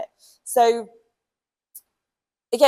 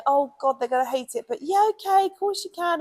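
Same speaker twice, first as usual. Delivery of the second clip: reluctant forced yes; 7 semitones higher than usual. Retold or imitated. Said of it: "or going".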